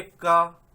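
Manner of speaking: का said loud and drawn out; व्यंजन का उच्चारण. Shown as a demonstration. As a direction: demonstrate का as one strong, long syllable. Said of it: "आप कीजिए". (का को ज़ोर से, खींचकर बोलें)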